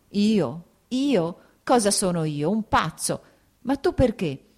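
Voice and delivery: rising, disbelieving questions; incredulous protest. Acted. Husband disbelieving when wife says she pities him, incredulous. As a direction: throw her pity back, incredulous.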